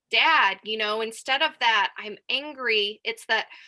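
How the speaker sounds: ordinary delivery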